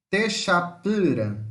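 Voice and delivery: TEXAPURA slowly split into its syllables; teacher's careful count through Texapura. Shown as a demonstration. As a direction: sound out Texapura at half speed, each syllable distinct. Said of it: "quatro ou mais sílabas".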